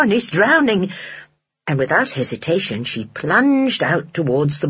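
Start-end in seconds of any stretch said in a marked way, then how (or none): 0.0-0.9 higher, alarmed realisation; rising panic. Acted. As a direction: panic breaking through.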